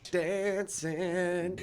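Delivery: teasing Aussie "Dancing" with a flat drawn a; mock Aussie. Mate teases the Kiwi over his first Aussie word, mock Aussie accent. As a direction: imitate an Australian saying "Dancing". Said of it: "We're going dancing".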